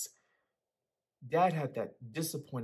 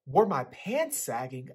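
shocked repeat; 6 dB louder, slower than usual. Acted. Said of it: "shocked by the question".

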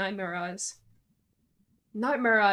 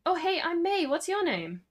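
much higher, louder eager hello; rehearsed greeting; 9 semitones higher, 4 dB louder than usual. Shown as a demonstration. May rehearsing a second greeting, extra eager. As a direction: overeager mirror-practice hello. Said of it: "I'm gonna do the middle one".

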